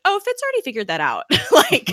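quick, high, breezy and laughing; laughing brush-off. Retold or imitated. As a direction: toss it off with a laugh. Daisy's casual brush-off, laughing.

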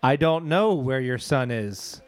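slow, measured assistant voice; Alexa. Pretend. Alexa to parent about the son, slow assistant voice. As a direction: answer like a digital assistant, slowly. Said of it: "I'm trying to do Alexa".

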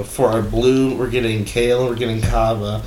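announcing names like a commentator; sports commentator. Shown as a demonstration. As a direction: build up to the last name like a lineup call. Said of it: "You sound like a sports commentator".

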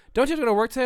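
high, loud mock questioning; imitated coworker. Retelling a coworker's question at work, high and loud. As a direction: coworker lightly voiced like a cartoon character. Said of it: "came in two minutes into my shift and goes".

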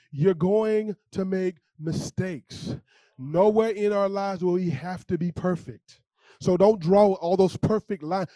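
slow, weighty, every word stressed; slow emphatic preaching. Real, not acted. Pastor warning the congregation, slow and deliberate. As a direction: land each word slowly.

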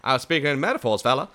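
high, bouncy 1920s showman voice; Conan O'Brien old-timey voice. Acted. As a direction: play it like an old-timey radio host. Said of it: "my best Conan O'Brien does up twenties voice".

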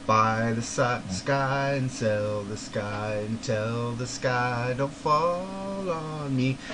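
drawn-out, slow lyric recitation; slow recited lyrics. Retold or imitated. Fan reciting song lyrics to friend, slow and drawn out. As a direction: recite the words slowly like a poem.

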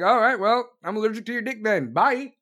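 loud, fast sassy brush-off; sassy comeback. Pretend. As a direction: snap it back and dismiss him. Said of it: "be like".

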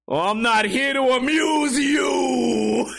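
very slow, high, hammed-up Italian-American accent; mock Italian accent. Drunk man taunting an offended stranger, exaggerated Italian accent. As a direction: draw out every word, mocking his Italian accent. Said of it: "making fun of his Italian accent".

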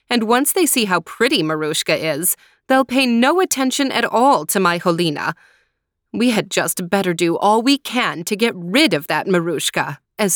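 a hint of a jealous stepmother scheming. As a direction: plot against the stepdaughter, spiteful. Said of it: "the stepmother thought to herself".

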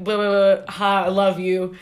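mock starstruck babbling; tongue-tied. Fan meeting Weird Al for a photo, tongue-tied. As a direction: babble nonsense, then blurt it out. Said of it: "I can't speak. I'm just like".

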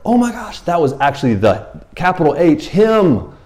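high, loud mock panic; full-blown freak-out. Preacher acts Gideon realizing whom he saw, panicked freak-out. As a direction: panic at who you have just seen. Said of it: "having a full-blown fear, freak out mode".

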